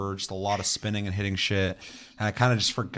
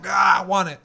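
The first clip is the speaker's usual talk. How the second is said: mock whiny grab; 10 semitones higher, 9 dB louder than usual. Purse snatcher mock voice.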